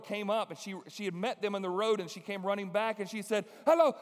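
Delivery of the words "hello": put-on high excited girl. Girl's voice in retold story.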